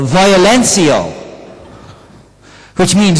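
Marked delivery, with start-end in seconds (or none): 0.0-1.1 Lisbon Portuguese. Shown as a demonstration. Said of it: "It'll be more a Lisbon accent".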